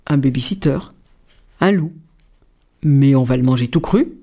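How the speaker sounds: low, gruff papa rabbit; a father rabbit sounding big and hungry. A narrator's reading. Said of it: "de sa grosse voix de lapin".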